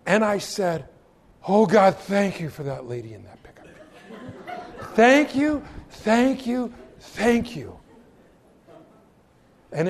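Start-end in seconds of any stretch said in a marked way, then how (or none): 1.5-7.8 relieved, laughing gratitude to God; laughing thanks. Retold or imitated. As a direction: gush thanks through a laugh. Relieved after spotting the cop.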